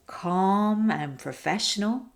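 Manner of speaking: composed, measured delivery; calm and professional. Shown as a demonstration. Coach showing one energy option to speakers, calm and professional. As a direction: keep it calm and professional, drawing out the words. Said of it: "the examples I just did".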